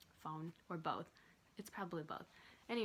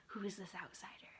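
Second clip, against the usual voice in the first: whispering. Retold or imitated. Imitating staring students.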